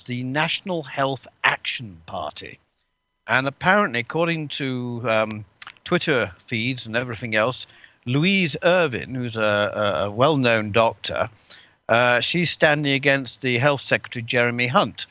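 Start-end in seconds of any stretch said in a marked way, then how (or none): 3.3-15.1 wheezy voice. Real, not acted. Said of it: "I'm wheezing like an old steam engine".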